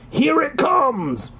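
slow, drawn-out excited call; excited cry. A narrator's reading. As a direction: announce it like a crowd voice. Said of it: "a voice cries".

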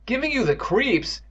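high, drawn-out echo; incredulous cry. A narrator's reading. Boy to his squeamish friend, crying out incredulously. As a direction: cry it back in disbelief. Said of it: "Evan cried".

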